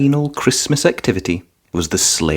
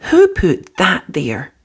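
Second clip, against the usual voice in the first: Mummy Pig's voice; 6 semitones higher, slower than usual. A narrator's reading. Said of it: "said Mummy Pig".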